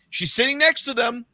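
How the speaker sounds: ordinary talk, nothing marked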